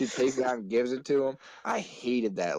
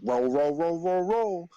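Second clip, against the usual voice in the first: rising, higher mock chant; hurrying teacher; 6 semitones higher, 4 dB louder than usual. Teacher pushing pupil to the bookcase, imitated rising chant. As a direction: rattle it off in a climbing, louder run.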